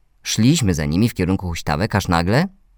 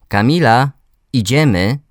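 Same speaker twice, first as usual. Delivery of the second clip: put-on higher, louder call to a child; 5 semitones higher, 4 dB louder than usual. A narrator's reading. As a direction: call someone over to leave. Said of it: "zawołał po chwili".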